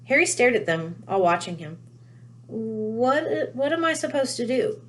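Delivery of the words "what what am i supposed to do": nervous, halting question, pitched up; stammering. A narrator's reading. Harry stammers at the watching family, panicky and halting. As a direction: falter over the words like a scared boy. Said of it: "he stammered".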